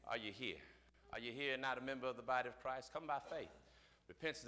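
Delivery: calm closing appeal to the church; quiet altar call. Acted. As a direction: gently invite them forward.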